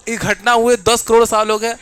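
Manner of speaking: laughing out the words, loud and high; can't hold the laugh in while talking. Real, not acted. Teacher to class, giggling through the line.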